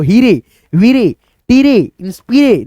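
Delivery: हीरे, वीरे, टीरे, इंस्पिरे each ending in "ee-ray"; wrong reading. Shown as a demonstration. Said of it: "नहीं".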